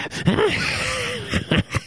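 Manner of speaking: very high shrieking villain cackle; evil cackle. Acted. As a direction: cackle in triumph. Monster laughs after gloating.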